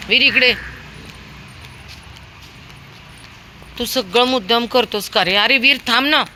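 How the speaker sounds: loud scolding of the pet; scolding call. Real, not acted. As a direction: tell the dog off. Scolding dog.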